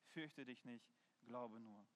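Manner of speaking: very soft, low scriptural quote; quiet, low and intimate; hushed reassurance. Retold or imitated. Quotes Jesus' gentle reassurance.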